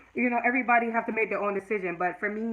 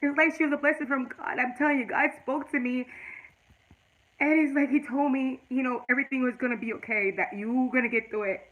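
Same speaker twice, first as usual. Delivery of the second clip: real tearful testimony, voice lifting; moved and close to crying; emotional, tearful; 2 semitones higher than usual. Real, not acted. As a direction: speak through welling tears. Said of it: "I didn't mean to get emotional".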